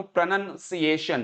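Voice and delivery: प्रोनंसिएशन said syllable by syllable; careful pronunciation. Shown as a demonstration. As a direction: teach प्रोनंसिएशन as pro-nun-see-AY-shun, with NUN not NOUN. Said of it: "यानी कि उच्चारण". (प्रोनंसिएशन का साफ़ उच्चारण)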